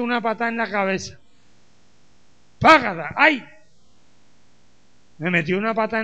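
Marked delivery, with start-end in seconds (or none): 2.6-3.4 loud imitated smack, then a short "ay"; mock kick and yelp. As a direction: act out a blow and the yelp. Acts out being kicked.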